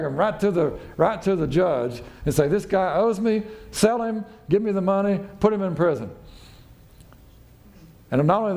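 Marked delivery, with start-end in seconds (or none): 2.5-6.1 high insistent demand; demanding creditor. Retold or imitated. Servant drags debtor to judge, high demanding. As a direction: insist he pay you now.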